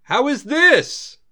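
a princess trying a mousy voice and overdoing it; mimicking a timid voice. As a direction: Luna booming a copy of a meek voice. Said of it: "Shall we mimic thy voice?".

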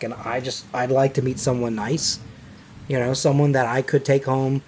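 put-on fumbling driver with a New York accent. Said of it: "stay in the New York".

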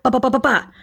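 imitated gunfire. Imitating rapid pistol shots.

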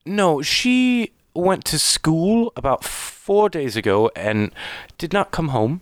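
high, halting voice of a tearful mother; acted distraught elven woman, faltering. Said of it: "she seems very distraught".

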